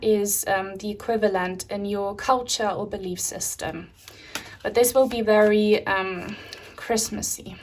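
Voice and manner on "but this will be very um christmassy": out of breath, short breaths. Real, not acted. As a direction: talk breathless between words. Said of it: "I am so out of breath".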